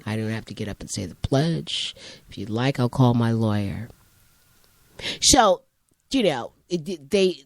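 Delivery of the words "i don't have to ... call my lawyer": composed student. Retold or imitated. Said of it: "Robert probably said".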